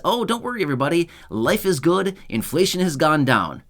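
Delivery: high, sugary mock reassurance; sarcastic mock quote. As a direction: parody the officials' cheery line. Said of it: "Obviously, I'm being sarcastic".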